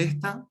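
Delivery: "esta" with the first syllable stressed. Shown as a demonstration. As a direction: hit the opening E of "esta", ES-ta. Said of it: "lleva acento en la primera E". ("esta" acentuada en la primera E)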